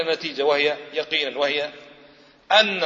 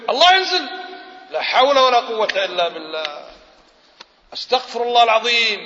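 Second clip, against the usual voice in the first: alarmed believer; 2 semitones higher than usual. Retold or imitated. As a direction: imitate someone startled and scandalized. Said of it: "في ناس يرعبك شوي".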